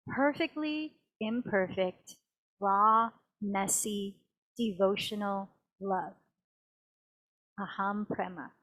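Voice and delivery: soft, spaced-out affirmation; hushed close of a meditative reading; devotional reading. Acted.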